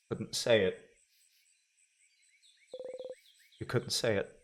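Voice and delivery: low, soft, drained narration; exhausted hush. Acted. Narrating the aftermath of the scream, soft and spent. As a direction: let every word sag with fatigue.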